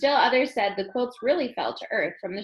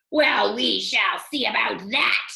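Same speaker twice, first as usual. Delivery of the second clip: mild roar; 5 dB louder than usual. Acted. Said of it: "the king roared".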